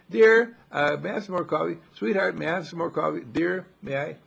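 a husband sweetly asking his wife for a refill; lightly voiced doting husband at the breakfast table.

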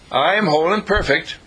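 firm affirmation; stress on am. Shown as a demonstration. Preacher modelling an affirmation, stress on am. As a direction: put weight on am in I am whole. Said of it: "affirmation with stress on am".

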